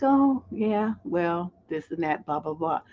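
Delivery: slow, softening sultry murmur; sultry low voice. Retold or imitated. Showing how Lauren Bacall talked to people, sultry and low. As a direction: lightly imitate a sultry screen actress, never raising the voice. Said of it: "she had kind of a sultry, low voice".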